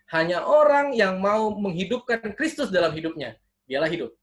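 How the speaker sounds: preacher's rising, punched key phrases; emphatic preaching. Acted. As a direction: proclaim it to the congregation. Preaches to the congregation. (berkhotbah dengan penekanan kuat)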